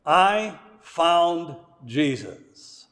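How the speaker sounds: I drawn out slowly, then a pause; stress on I. Retold or imitated. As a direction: say it slowly, setting I apart. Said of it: "the emphasis in that statement is on me".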